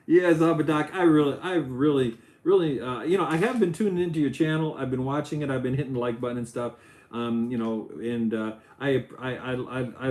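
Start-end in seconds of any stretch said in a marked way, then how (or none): 0.1-4.8 lightly voiced cartoon dog, louder; a hint of a dopey cartoon dog; Goofy voice. Streamer praises Zabadak's channel in light Goofy voice. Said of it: "so I got Goofy".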